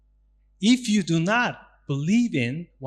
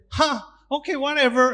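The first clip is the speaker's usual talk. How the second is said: much higher, breezy brush-off; dismissive shrug; 10 semitones higher, faster than usual. Retold or imitated. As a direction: toss it aside like it doesn't matter. Brushing off a rude remark.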